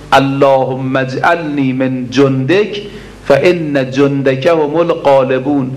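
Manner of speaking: slow, drawn-out Arabic supplication, each word weighed; slow prayer recitation. Acted. Preacher reciting the supplication to the congregation, slow and drawn out. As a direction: intone the prayer slowly like a preacher.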